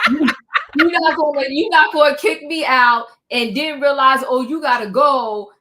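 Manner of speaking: loud, emphatic mock confrontation; acted outrage at full volume; indignant telling-off. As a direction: tell them off loudly, as if they were here. Mock-confronting the host who ejected her.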